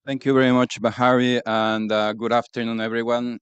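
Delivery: breathless after running; panting slightly, catching breath. Real, not acted. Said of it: "I'm still catching my breath".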